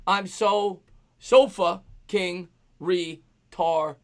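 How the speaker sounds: deliberate, halting read-aloud; slow sounding-out. Retold or imitated. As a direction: read word by word with gaps. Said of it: "Say this out loud".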